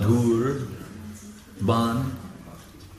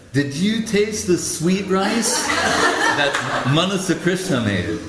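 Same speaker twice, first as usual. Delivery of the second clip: excited about the sweet rice; 6 semitones higher than usual. Retold or imitated. Gurudev on the phone asking Paramananda about sweet rice, delighted. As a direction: savor each word, giggling with joy. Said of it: "he says".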